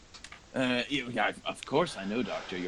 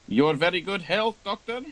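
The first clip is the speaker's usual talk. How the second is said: barmaid toast; 7 semitones higher, 6 dB louder than usual. Acted.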